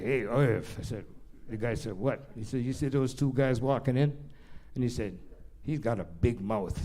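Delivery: put-on old man at the fight muttering about the guy walking in; hushed aside. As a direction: lean in and murmur it to your friend.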